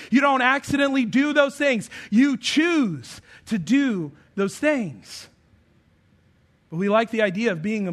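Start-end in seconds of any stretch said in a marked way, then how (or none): 0.1-1.9 emphatic. Real, not acted. Preacher drives point home. 2.1-5.3 very slow, weighted words; slow emphatic. Real, not acted. Preacher slowly stressing choose to his congregation. Preacher drives point home.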